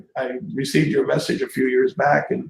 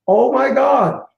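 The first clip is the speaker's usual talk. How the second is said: high, louder starstruck "oh my God"; retold starstruck gasp; 9 semitones higher, 4 dB louder, slower than usual. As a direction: recreate the thrill of spotting him. Spotting a celebrity.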